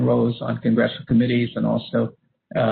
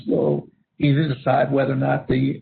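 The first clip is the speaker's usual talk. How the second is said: coughing. Real, not acted. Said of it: "I'm coughing".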